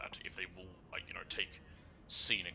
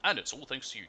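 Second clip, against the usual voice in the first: cheerful passenger voice; 5 semitones higher, 5 dB louder than usual. Acted. Voicing a grateful taxi passenger.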